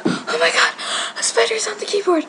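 breathless frightened whisper; panicked whisper. Real, not acted. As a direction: hiss it out in fright. Spider on the keyboard.

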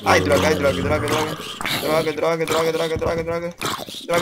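loud, rapid panicked curses; frantic cursing. Real, not acted. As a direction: curse out loud mid-fight. Fighting zombies, frantic cursing.

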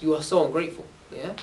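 preacher voicing Musa's angry reproach; angry rebuke. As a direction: scold them like a frustrated prophet. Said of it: "Musa got so angry".

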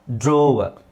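ಡ್ರಾವರ್ slow, with a stretched first vowel; alternative pronunciation. Shown as a demonstration. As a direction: draw out ಡ್ರಾವರ್, "drooo-wa". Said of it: "ಅಂತಲೂ ಬರ್ಬೋದು".

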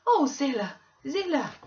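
high, loud cry of alarm; shocked cry. Acted. Nelly hearing the master may be dead, crying out in alarm. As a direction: gasp out her name in shock.

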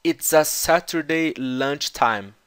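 slowly, word by word; slow repetition. Shown as a demonstration. Teacher to students, repeating the clip slowly. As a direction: lay the phrase out slowly for learners. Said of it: "teacher repeats clip slowly".

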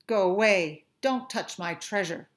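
a touch of a grumpy lobster; mild growl. Acted. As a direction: warn him off gruffly, understated. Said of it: "the lobster growled".

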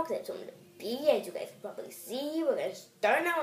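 breathless, rushing the words; panting a little as you hurry; out of breath. Real, not acted. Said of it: "I'm running out of breath".

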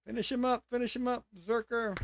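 high-pitched mock urging; high, chanted goading; egging on berserker. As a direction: cheer on your fighter in a high put-on voice. Urging on a game character.

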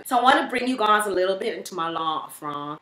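intro line in a South African accent. Shown as a demonstration. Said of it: "That's a South African accent".

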